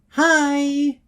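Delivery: high, bright chirp of a greeting. Acted. Pinky springs a chirpy hello on the returning couple. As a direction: pop out with a squeaky chirp. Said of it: "she says in a chirping voice".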